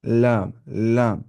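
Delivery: लाम said slowly, tongue side held; letter demo. Shown as a demonstration. Teacher demonstrating the लाम sound, slow. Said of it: "ऐसे पढ़ना होता है क्या?".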